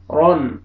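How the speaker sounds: "रन" with a full, heavy ra. Shown as a demonstration. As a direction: fill the mouth on the ra. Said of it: "heavy sound आएगा मुंह भर के पूरा".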